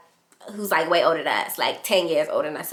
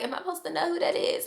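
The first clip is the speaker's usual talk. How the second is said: baffled; 10 semitones higher, 8 dB quieter, faster than usual. Retold or imitated. Inner thought, baffled at stranger.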